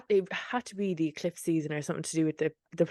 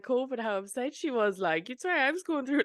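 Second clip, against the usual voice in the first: real welling-up voice, higher pitched, half laughing; getting teary; 6 semitones higher than usual. Real, not acted. Friend moved by remembering her friend crying, teary. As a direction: talk through rising tears with a little laugh. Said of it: "I'm actually getting teary".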